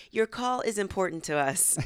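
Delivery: mock automated phone message; hold-line recording. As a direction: recite like a customer-service recording. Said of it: "I like to say".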